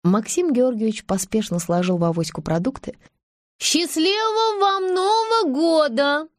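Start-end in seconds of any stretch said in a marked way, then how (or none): 3.6-6.3 much higher, slow call after someone. Acted. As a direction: call out cheerfully after him. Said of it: "крикнула ему вдогонку кассирша".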